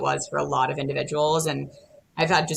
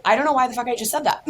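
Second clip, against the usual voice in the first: higher, fast, laughing self-mockery; embarrassed fan; 9 semitones higher, 4 dB louder, much faster than usual. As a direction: blurt it as the mortified fan. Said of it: "She's like".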